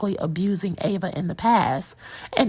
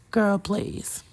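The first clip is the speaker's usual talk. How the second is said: dismissive whisper. Real, not acted. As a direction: brush it off in a whisper. Dismissive aside to viewers.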